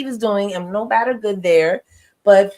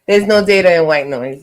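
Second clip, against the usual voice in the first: laughing; 3 semitones lower, 4 dB louder than usual. Real, not acted. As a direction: clear repeat through a chuckle. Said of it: "I'm sorry, I had a mint in my mouth".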